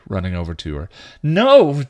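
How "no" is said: loud, high refusal; arguing. A narrator's reading. Dawn shrugs off Buffy's attempts, arguing. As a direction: protest hard, pitch leaping up. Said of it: "Dawn argued".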